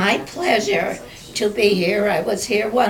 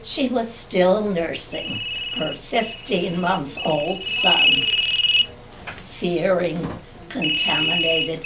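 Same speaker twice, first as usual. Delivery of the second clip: memoir reading. Acted. Reads written family memoir.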